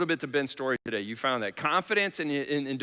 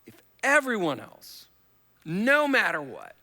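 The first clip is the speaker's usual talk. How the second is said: escalating vow; 8 semitones higher, 6 dB louder than usual. Retold or imitated. Mock vows, rising pitch.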